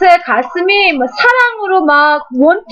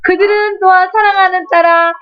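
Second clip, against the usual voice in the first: voice of God comforting. Retold or imitated. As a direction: speak as a gentle God reassuring a daughter. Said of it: "어떻게 위로하시냐면".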